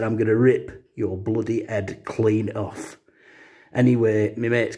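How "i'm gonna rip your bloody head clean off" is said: slow, dragged-out menace in a put-on voice; lightly voiced bar thug, slow and threatening; mock thug threat. Bar thug threatening his mate over the spilled pint, slow mock menace.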